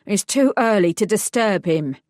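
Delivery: put-on stern, firm older woman's voice; a hard-edged woman blocking the way; gruff woman. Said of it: "a gruff female voice said".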